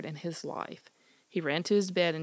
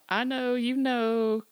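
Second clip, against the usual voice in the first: calling dogs; 5 semitones higher, 6 dB louder than usual. Acted. Smitty calls his dogs from the window, loud high holler. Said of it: "called out".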